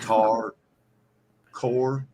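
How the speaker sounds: "core" for car, vowel rounded to OR; regional car. Shown as a demonstration. Listing accent words, car said as "core". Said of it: "We say core".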